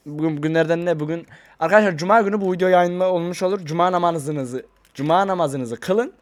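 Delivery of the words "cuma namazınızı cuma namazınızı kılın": slow, drawn-out reminder; slow drawl. Acted. Vlogger reminding viewers about Friday prayer, drawn out slowly. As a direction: stretch each word like a gentle nudge. Telling viewers to pray first.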